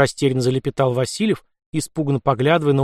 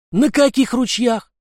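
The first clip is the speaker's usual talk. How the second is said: high, loud, slow bullying voice; loud mocking demand; rough anarchist; 10 semitones higher, 3 dB louder, slower than usual. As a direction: swagger over the young Cossack. Anarchist blocks Lyokha's path.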